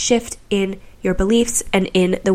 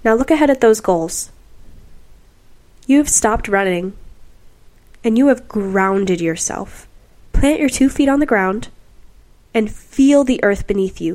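measured guiding voice with long pauses; guided meditation. Real, not acted. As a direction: lead the listener through a visualization, lingering on key words.

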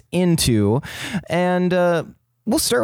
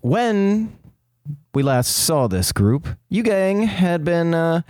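dramatic "previously on" narration; announcer-style recap read. Acted. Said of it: "he's stuck in recap voice".

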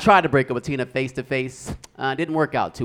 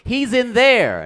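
high, loud, drawn-out wail; frantic cry; 9 semitones higher, 7 dB louder, much slower than usual. Acted. Woman telling the cops where he is, frantic cry. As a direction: cry it out high, stretching the words. Woman tells police hysterically.

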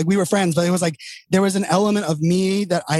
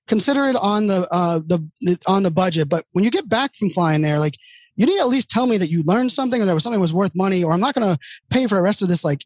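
imitating demanding CEO; 3 semitones higher than usual. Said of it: "that's how he talked to me".

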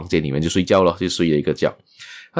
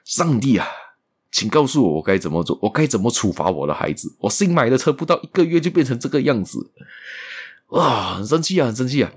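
angry prayer; 5 semitones higher than usual. Retold or imitated. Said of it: "跟那个他上帝说道".

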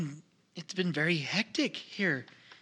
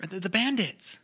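whisper; 3 semitones higher than usual. Acted. Whispering about bandits.

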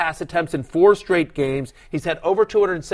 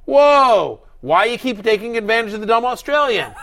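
much higher and louder with a laugh; mock outraged league-mate; 6 semitones higher, 4 dB louder than usual. Host imitating league-mates accusing him of fleecing the dumb Australian, mock outrage. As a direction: ham up a league-mate's disbelief, laughing. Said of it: "everyone would have been like".

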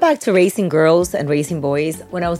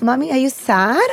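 lightly voiced child, pitched up; young son; 6 semitones higher than usual. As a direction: ask like a concerned little boy, lightly imitated. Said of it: "he still asks".

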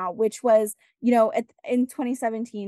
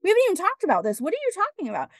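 disbelief; 5 semitones higher, faster than usual. Retold or imitated. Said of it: "And I'm like".

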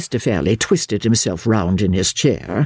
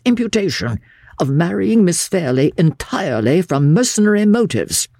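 higher, lightly acted forceful argument; insistent lawyer; 6 semitones higher than usual. Lawyer urging the uncle to stand firm, mildly heated. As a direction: drive each point home firmly.

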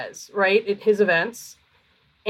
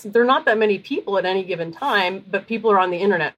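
talking between sips of kombucha; words around a sip of drink; while sipping a drink. Real, not acted. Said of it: "I'm drinking kombucha".

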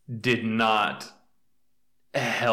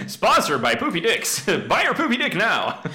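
higher and louder, giggling through an ad read; laughing mock ad; 10 semitones higher, 6 dB louder than usual. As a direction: fake sponsor plug, cracking up. Mock sponsor read while laughing.

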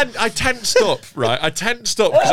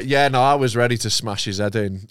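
laughing. Real, not acted. Laughing while telling the story.

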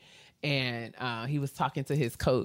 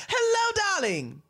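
imitating Andre. Voicing Andre greeting.

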